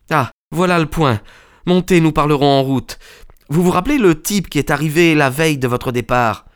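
put-on high, urgent young man's voice; hurried, high-pitched questioning; distressed young friend. A narrator's reading. Son urging his friend into the cart, high and urgent.

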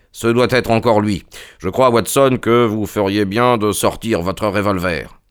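lightly voiced detective, emphatic; Holmes, insistant. (Holmes, insistant, légèrement emphatique)

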